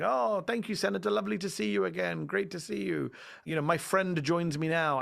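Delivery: high, gushing mock TV host; fawning host. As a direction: ham up a sycophantic anchor thanking a senator.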